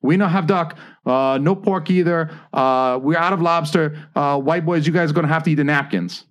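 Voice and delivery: high, put-on Asian accent, imitating a waitress; mock Asian waitress accent. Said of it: "putting on an Asian accent as I'm pretending to be the Asian lady".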